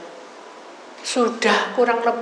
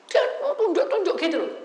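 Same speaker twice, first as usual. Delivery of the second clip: normal talking voice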